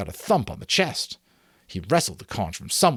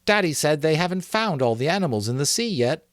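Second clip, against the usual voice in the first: Maurice speaking up, a touch louder and higher; boy blurts it out over the crowd; spoken loudly; 8 semitones higher, 3 dB louder than usual. A narrator's reading. Maurice to the assembly, a raised boyish voice. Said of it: "so loudly that they jumped".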